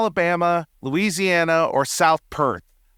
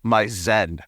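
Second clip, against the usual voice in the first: lower, calm, lightly voiced zen; a hint of a hunter finding his inner peace; serene hunter; 9 semitones lower, slower than usual. Mocking the actor's hunter scene, a lower calm zen voice. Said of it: "it's like".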